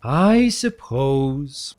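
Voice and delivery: slow, drawn-out mock hesitation; false reluctance. Gabardine teasing Ripple with put-on reluctance. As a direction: pretend to be unwilling, teasing. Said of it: "with obvious false reluctance".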